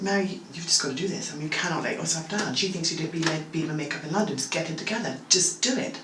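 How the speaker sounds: soft, low self pep talk; quiet pep talk. Retold or imitated. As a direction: steel yourself under your breath.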